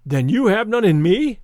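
protest, stung; hurt outburst. A narrator's reading.

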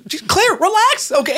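very high, drawn-out plea; strained plea. Acted. Agent to panicking colleague, high-pitched drawn-out plea. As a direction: stretch it out way up high.

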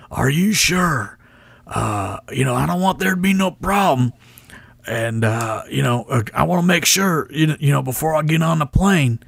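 put-on high, anxious old wrestler wanting assurance; Tommy Rich impression. Tommy Rich making sure before the flight, high worried impression. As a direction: pitch up and fret over the deal. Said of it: "my Tommy Rich impression was pretty good".

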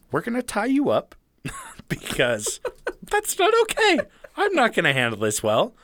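high, strained freaked-out dad; a frazzled parent losing it, half laughing; panicked father. Retold or imitated. Imagined father facing possessed kid.

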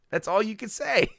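high-pitched little sister tease; mock girlish jeer; Dee Dee. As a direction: imitate a cartoon girl taunting her brother. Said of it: "Dee Dee pops her head up".

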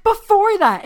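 mock angry snap. Mean girl snapping back in quarrel.

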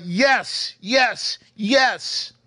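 high, thrilled little cheer of yes; excited yes. Retold or imitated. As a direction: cheer it to yourself like a kid who just won. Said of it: "like, so excited".

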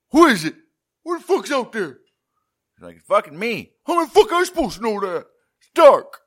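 hammed-up frightened shout; mock shriek. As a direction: shriek it into the dark. Voicing Jane shrieking with pistol.

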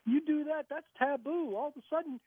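high, incredulous imitation of the guard; playful retold disbelief; mock disbelief. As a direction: scoff at the idea, lightly acted. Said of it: "And Alan goes".

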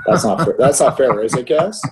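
laughing mock protest, pitch up; playful fake complaint, laughing; mock whining. Real, not acted.

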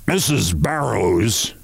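slow, careful drawn-out name; lightly voiced boss choosing words; hesitant company chief. Chief searching for proper words, hesitant.

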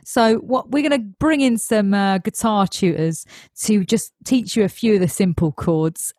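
lightly voiced matey Cockney accent; Cockney director. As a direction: talk them round as a Cockney director. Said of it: "do the director's voice like they're Cockney".

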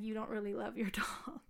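whispered, mocking the creep's excuse. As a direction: hush it like a creepy secret. Quoting the dog owner's excuse.

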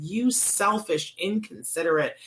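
a stranger berating a woman who double parked, retold as a mock angry rant; mock angry tirade. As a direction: lay into her like a stranger in a parking lot. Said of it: "just lined her out and said".

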